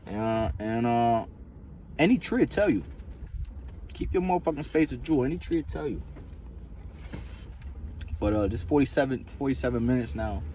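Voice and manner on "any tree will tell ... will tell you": raised mock-mystic tone. Mystical pronouncement.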